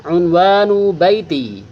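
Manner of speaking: slow, clear model reading; reading aloud. Shown as a demonstration. Teacher reading the text title to pupils, slow and clear. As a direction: read the title out for the class. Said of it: "Paman akan baca".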